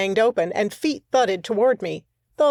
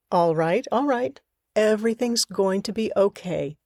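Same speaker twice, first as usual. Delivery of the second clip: soothing voice. Acted. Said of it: "I tried my soothing voice".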